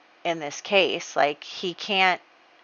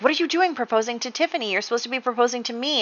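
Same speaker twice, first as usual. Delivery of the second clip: mock yell; 5 semitones higher, much faster than usual. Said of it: "she's going to yell at him".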